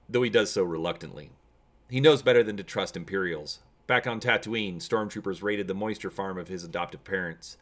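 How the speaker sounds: steady storytelling read; measured storybook narration; story narration. A narrator's reading. Reads the adventure story aloud.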